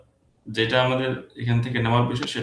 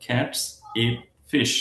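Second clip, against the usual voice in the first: "cats", "eat", "fish।" as separate even beats; stressed words only; much slower than usual. Shown as a demonstration. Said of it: "Just stressed word গুলো".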